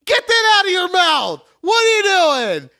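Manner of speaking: loud, high-pitched mock scolding; exaggerated yell. Coworker spots paperclip in his mouth, exaggerated yelling. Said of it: "she wasn't yelling at me like that".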